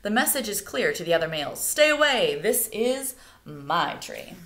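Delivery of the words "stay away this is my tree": bird warning. Acted. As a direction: warn rivals off your tree. Cockatoo warns other males.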